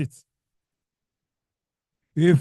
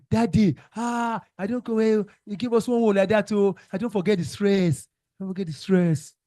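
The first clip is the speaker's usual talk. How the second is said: mock pupil plea; 5 semitones higher than usual. Teacher mimics pupil pleading.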